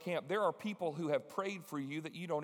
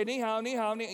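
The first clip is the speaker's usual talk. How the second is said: bad Chinese; 5 semitones higher, 4 dB louder than usual. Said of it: "Just really, really bad".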